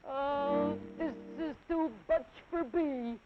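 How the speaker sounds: high, nasal-voiced child; through his nose. Elephant's child with a long nose, speaking through it. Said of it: "said through his nose".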